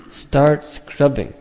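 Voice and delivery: slow, deliberate Start scrubbing with START stressed; slow emphasis. Shown as a demonstration. Preacher urging students to keep scrubbing, slowly. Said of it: "your job is just to dig".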